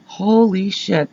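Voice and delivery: slow, hushed disbelief; retold stunned realisation. Realizing the newsman has the home drawl, hushed and stunned. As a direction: let it sink in slowly and softly.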